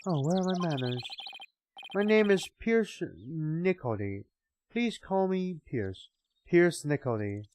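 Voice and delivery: put-on slow, stately old butler; slow formal butler. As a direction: speak with slow dignity. Butler and Soren voices.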